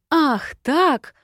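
high, loud indignant outburst; angry challenge, voice leaping up. A narrator's reading. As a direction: flare up and square off. Furious, rushes up to him.

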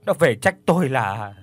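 stuttering in fear, starting in a whisper; broken, frightened halting speech; terrified stammer. Acted. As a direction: shaken old man stumbling over his words. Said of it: "Hàm răng va vào nhau nghe lách cách".

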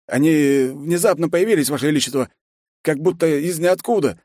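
lightly voiced nervous general; general's voice. General explains.

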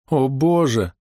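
high tearful cry to God; sobbing. A narrator's reading. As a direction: break into a sob on each Боже. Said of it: "всхлипнула она". (всхлипывая, с плачем)

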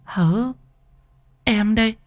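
high, calling voice of a younger woman; worried younger sister. Acted. Ngọc calling her frightened brother back to his senses, worried. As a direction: snap him out of it, urgently calling.

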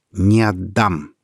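slow, steady refusal; firm. Acted. Peter looking Michel in the eye, firm slow refusal. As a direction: plant each word, unbending. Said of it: "твёрдо сказал".

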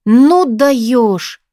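ordinary delivery, nothing marked

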